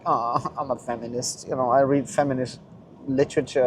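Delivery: soft, sneering mock quote; mocking feminist guy. Mocking a man who calls himself a feminist, soft sneering voice. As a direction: sneer it out softly with a laugh. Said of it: "better than saying, like".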